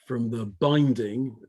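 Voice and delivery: binding given slight weight; stress on binding. Shown as a demonstration. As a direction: press on the word binding. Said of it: "and I emphasize that word".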